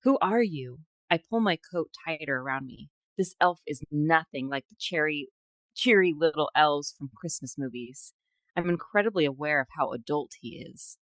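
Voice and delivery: measured fiction reading, lines falling away at the ends; story narration. Acted. Host reading a fantasy excerpt to co-host, story narration. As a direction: read it like a romantic fantasy audiobook.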